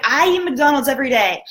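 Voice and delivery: retold eager confession; excited confession. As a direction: blurt it out, seeing himself in him. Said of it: "just getting super excited".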